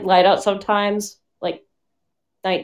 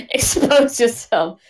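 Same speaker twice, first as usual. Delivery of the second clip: laughing; 3 semitones higher, slower than usual. Real, not acted. Laughing repeat of friend's line.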